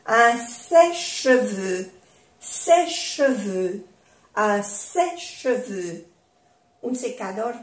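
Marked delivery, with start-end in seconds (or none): 0.1-6.1 sèche-cheveux with the E silent; French pronunciation. Shown as a demonstration. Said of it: "no se pronuncia la E". (sèche-cheveux sin pronunciar la E)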